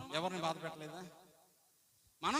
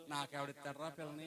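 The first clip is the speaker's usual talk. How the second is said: put-on softer, offhand old grandpa joking back; preacher voicing grandpa's quiet joke; old man's casual reply; 2 semitones lower, 6 dB quieter than usual. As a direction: toss it off like a grandfather brushing off a tease. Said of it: "ఏమంటాడు?".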